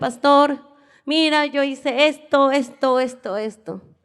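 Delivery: ordinary delivery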